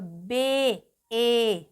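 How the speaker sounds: "बे" with the ए held long; long vowel demo. Shown as a demonstration. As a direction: draw out the ए in "बे". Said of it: "long vowel sound".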